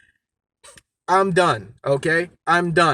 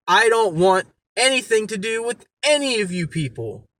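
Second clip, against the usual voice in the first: angry; 4 semitones higher than usual. Real, not acted. Angry rant at drama makers.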